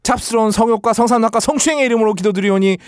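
solemn preacher prayer cadence; mock prayer. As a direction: pray like a pastor, with reverence.

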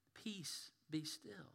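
soft whisper; preacher whispering peace to the congregation; whispered blessing. Pretend. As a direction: speak peace over them. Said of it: "preacher whispering the words".

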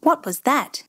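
lightly voiced father, sharp query; a hint of the startled father asking; Papa's startled question. A narrator's reading. Father startled by a grey streak, a lightly voiced sharp question. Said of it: "Papa said".

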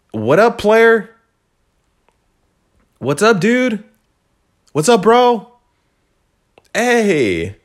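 high, loud, chirpy hellos to everyone; overeager greetings. Retold or imitated. Mimicking himself checking in with everybody, high and loud. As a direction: greet everybody like an overfriendly buddy. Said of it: "check in with everybody and, like".

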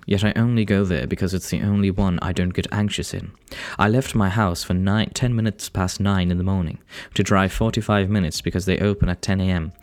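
narrative read in a put-on English accent; English accent, carefully read out. Real, not acted. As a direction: tell it like an English audiobook narrator. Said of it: "easier to read in an English accent".

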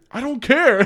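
high-pitched retort through a laugh; hammed-up, laughing protest; mock defiance. Retold robber snaps back.

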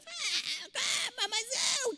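mock angry woman. Preacher mocking an angry woman's protest, hammed up. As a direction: play a woman getting worked up.

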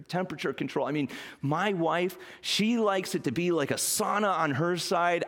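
gushing, bubbly friend raving about a new car; excited car owner. Retold or imitated. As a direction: rave like a thrilled satisfied customer. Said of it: "That's what a satisfied customer sounds like".

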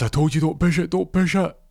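loud, high, snapping warning; angry threat. Retold or imitated. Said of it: "He goes".

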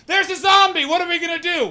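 high, loud comic alarm; mock panic. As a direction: cry out in hammed-up fright. Acted panic at slow zombie.

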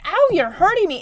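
high whiny cry of pain; high pained kid sister; hurt little girl. Retold or imitated. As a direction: play a small girl yelping. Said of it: "she's like".

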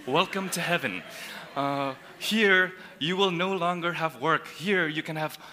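lightly mocking, soft airy angel greeting; high-pitched heavenly voice. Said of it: "talk in a high-pitched voice".

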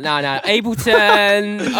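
high, slow mock dismissal; mocking friend voice. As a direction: drawl it out like a lazy student.

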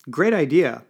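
loud, high-pitched burst of approval; exclaimed. A narrator's reading. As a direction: exclaim it with a big lift. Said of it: "exclaimed Sleeth".

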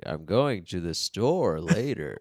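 slow, drawn-out mock American accent; stretched-out imitation American accent; put-on American accent. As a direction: exaggerate each word in a fake American accent. Imitating foreigner doing American accent.

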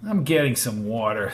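low, mildly curt statement; a touch of a snap; snapped. Acted. Brady brushing off the attendant, mildly snappish. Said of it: "snapped Brady".

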